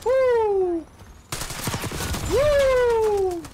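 loud high victory whoops; psyching myself up. Real, not acted. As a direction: whoop it up, celebrating. Celebrating streak, loud high.

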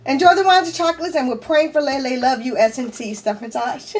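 reading through welling tears; tearfully emotional. Real, not acted. Reading friends' card aloud to viewers, tearfully emotional. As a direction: push on through the message while fighting tears. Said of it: "I didn't mean to cry again".

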